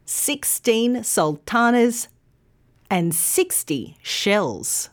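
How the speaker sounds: put-on thirteen with teen long, thirty with thir long; contrast stress. Shown as a demonstration. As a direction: make thirteen and thirty clearly different. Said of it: "say it with me".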